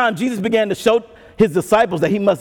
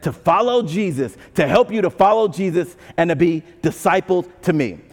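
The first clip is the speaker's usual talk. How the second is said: gentle voice of God; 4 semitones lower than usual. Retold or imitated. God reminding the discouraged why he gave brothers, gently. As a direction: speak as God comforting his child. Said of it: "And God is saying".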